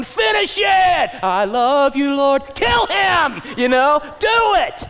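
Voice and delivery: high, loud yell at the screen; cheering shout. Retold or imitated. Moviegoer yelling at the screen for the kill. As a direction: scream for the hero to finish it. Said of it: "in your seat, you're going".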